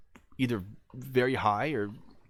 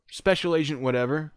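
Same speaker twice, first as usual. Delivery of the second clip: raised, higher announcing call; 8 semitones higher, 6 dB louder than usual. Retold or imitated. Agent answers the man inside, calling out. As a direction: announce yourself loudly through a door.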